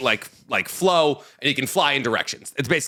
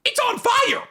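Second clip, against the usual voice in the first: high-pitched exclamation; incredulous protest; slower than usual. Real, not acted. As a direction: protest it in a squeal of disbelief.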